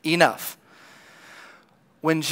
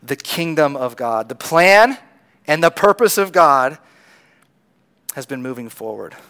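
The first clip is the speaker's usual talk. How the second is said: gentle Jesus. Retold or imitated. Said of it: "And Jesus goes".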